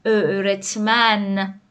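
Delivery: «ا، رتمن» very slowly, with a long ö; correct Ö onset. Shown as a demonstration. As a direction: stretch the ö, then finish «رتمن» slowly. («ا، رتمن» آهسته با ö کشیده)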